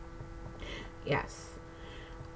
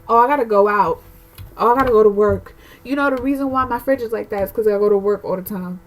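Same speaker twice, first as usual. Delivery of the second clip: louder, mock-whiny excuse voice; imitating mother-in-law making excuses; mocking the mother's excuses; 6 dB louder, faster than usual. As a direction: parody a hoarder dodging chores. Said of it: "So if it's like".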